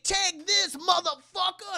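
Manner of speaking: high, loud action hero shout; mock battle cry. A rapper drop kicking Michael, loud battle cry. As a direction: yell it mid flying kick.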